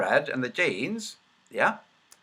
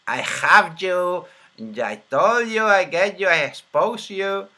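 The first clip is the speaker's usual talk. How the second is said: hammed-up triumphant gotcha; playful villainous triumph; mock gloating; 3 semitones higher, 5 dB louder, slower than usual. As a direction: gloat theatrically, higher and drawn out at the end. Mock gloating at finding the evidence.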